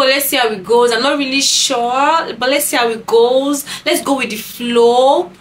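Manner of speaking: a hint of a stalling suitor; time-waster. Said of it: "If he's telling you".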